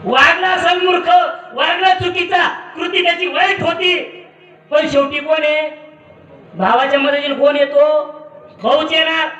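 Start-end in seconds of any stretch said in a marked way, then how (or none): 0.0-8.0 impassioned preaching. Acted. Preacher defends brother passionately.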